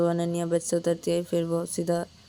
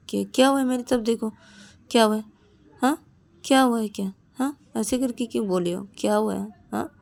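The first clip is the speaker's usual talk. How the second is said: higher, pressing questions; concerned urgency; 4 semitones higher, 3 dB louder than usual. Acted. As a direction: look at me, tell me. Ananya holds her face.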